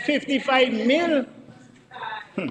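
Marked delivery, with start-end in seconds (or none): 0.1-1.2 incredulous laugh. Real, not acted. Incredulous at the cost figure.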